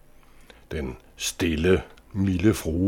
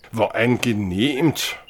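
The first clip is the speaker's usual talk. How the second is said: lightly voiced girl; 4 semitones higher than usual. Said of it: "sagde hun".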